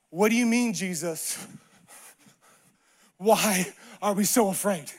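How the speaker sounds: restrained, halting disbelief; disciples' puzzled retort. Acted. Disciples answering Jesus in the storm, restrained disbelief. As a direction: pause long before the question, voice dropping. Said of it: "probably say what the disciples".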